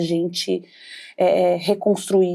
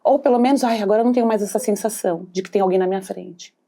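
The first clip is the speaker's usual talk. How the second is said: cold, accusatory voice; faster than usual. Acted. Envious person relieved the other has fallen, cold and accusatory. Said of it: "com uma voz".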